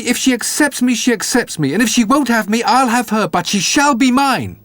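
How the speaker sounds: high, eager simpleton; Jack the Dullard. A narrator's reading. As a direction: rattle on keenly about marrying. Jack pleads for a horse.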